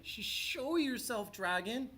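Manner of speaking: high, stammering timid knight; scared stutter. A narrator's reading. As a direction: stammer bravely but scared. Nervous knight stutters challenge.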